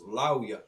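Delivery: "Lauya" sounded out slowly as "LAU-ya"; Hebrew pronunciation. Shown as a demonstration. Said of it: "it's pronounced".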